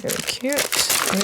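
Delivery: slow, breathy half-whisper of delight; almost whispering, savouring how it turned out; hushed admiration. Real, not acted. Crafter admiring her stamped card in a slow whisper.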